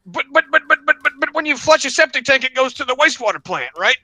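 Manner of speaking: stammering caller. Retold or imitated. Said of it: "And he goes".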